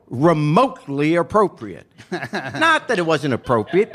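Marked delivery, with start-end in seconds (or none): 0.1-1.9 disapproving teacher. Retold or imitated. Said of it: "see the sides of her mouth going down".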